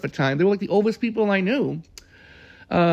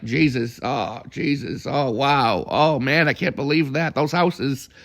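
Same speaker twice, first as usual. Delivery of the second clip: imitating John; 4 semitones lower, slower than usual. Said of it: "And John was just like".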